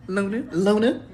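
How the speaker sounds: mock scolding herself, sing-song; attitude with self. Talking back to herself in the mirror, sassy. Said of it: "Getting an attitude right with myself".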